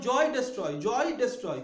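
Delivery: জয় ডেস্ট্রয় paired to show the shared "oy" ending; teacher matching জয় with ডেস্ট্রয় by ear; rhyme demonstration. Shown as a demonstration. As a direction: sound out জয় and ডেস্ট্রয় as a rhyme, falling at the end. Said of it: "কিন্তু ডেস্ট্রয়টা দেখো".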